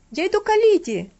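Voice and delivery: put-on high, loud, startled boy's answer; scared boy calling back; frightened reply. A narrator's reading. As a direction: blurt it out, scared. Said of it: "испуганно ответил Винзи".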